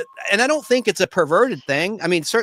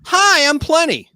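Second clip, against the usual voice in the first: high, slow coy intro; Bond girl voice; 9 semitones higher, 4 dB louder, slower than usual.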